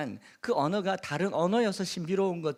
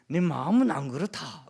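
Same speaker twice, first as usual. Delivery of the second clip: louder, emphatic Gyeongsang line; Gyeongsang man's dialect; 6 dB louder than usual. Acted. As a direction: quote a blunt man with Gyeongsang intonation. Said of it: "남자들이 하는 말이". (경상도 남자 억양으로 힘주어)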